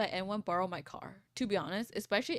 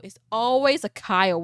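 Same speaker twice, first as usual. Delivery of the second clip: a much louder, mock-weary outburst; exasperated; 2 semitones higher, 12 dB louder than usual. Real, not acted. Griping to chat about roommate's boyfriend, loud exasperation. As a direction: throw up your hands at the name.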